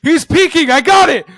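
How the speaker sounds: high, loud frantic yell. Retold or imitated. Imitating a teammate claiming the kill in a game, high yell. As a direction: yell it out like an over-eager teammate. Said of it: "all I hear is Alex yell".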